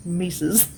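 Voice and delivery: "mices" said as MY-siz, a plural with an extra -es; the playful wrong plural "mices", MY-siz; mom's word mices. Retold or imitated. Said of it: "That's what my mom used to say".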